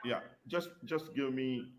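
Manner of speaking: very faint, far off the mic; faint murmur hard to make out; barely audible. Real, not acted. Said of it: "faint voice".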